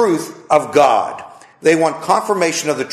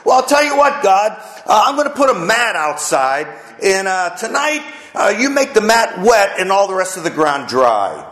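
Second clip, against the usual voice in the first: Gideon bargaining; 4 semitones higher than usual. Retold or imitated. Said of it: "And Gideon".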